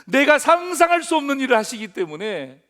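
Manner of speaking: emphatic loud restatement from the pulpit. Shown as a demonstration. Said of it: "예?".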